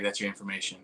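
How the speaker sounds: softly imitated whisper; retold whisper. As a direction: drop it low and soft, as if passing a secret. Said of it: "he, like, whispers".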